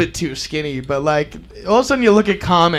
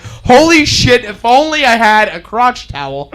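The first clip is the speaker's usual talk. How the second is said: mock regret. Acts out his own regret.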